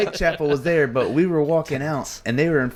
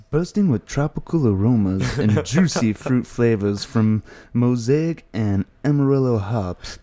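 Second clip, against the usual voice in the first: commercial read. Shown as a demonstration. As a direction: sell it like a beer ad. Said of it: "You gotta read it like a commercial".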